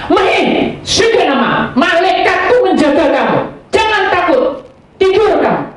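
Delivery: high, loud soothing prayer; praying over a scared patient in ICU, loud and high; comforting prayer. Retold or imitated. Praying over frightened patient at night.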